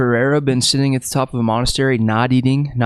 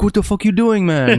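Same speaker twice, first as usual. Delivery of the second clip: higher-pitched, put-on exasperated retort; mock exasperation; 9 semitones higher than usual. Startled dad scolds his prankster son, mock exasperation. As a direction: retell an exasperated dad's reaction.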